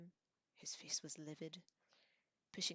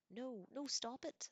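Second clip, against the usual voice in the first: high squeal, getting louder; 8 semitones higher, 3 dB louder, slower than usual.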